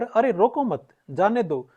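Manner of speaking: "रोको मत" as one phrase, short break before "जाने दो"; group "मत" with "रोको", then let "जाने दो" follow; pause after मत. Shown as a demonstration. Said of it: "जाने का है". ("मत" के बाद छोटा विराम)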